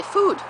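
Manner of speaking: "Food." said high and bright to the dog; single key word. Shown as a demonstration. Owner showing the dog's key word, sharp high "Food.". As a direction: call out "Food." as a lone cue word. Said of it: "it's just a word that she remembers".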